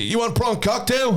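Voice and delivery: high, slow Manchester-American impression; Robert Irvine's accent. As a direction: imitate a British Bulldog style Manchester-American accent. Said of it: "like Davy Boy Smith, British Bulldog accent".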